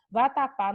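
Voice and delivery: VATAPÁ in three measured syllables; teacher counting out the syllables of Vatapá. Shown as a demonstration. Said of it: "nós temos três sílabas".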